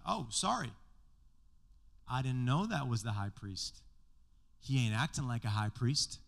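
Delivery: dry, sarcastic fake apology; mock sorry, dripping sarcasm; sarcastic Paul. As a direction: play innocent with a sneer underneath. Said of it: "Jesus is sarcastic all the time".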